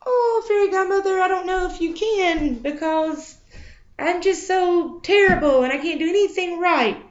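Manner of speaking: whiny Cinderella. Pretend. Cinderella complains to godmother.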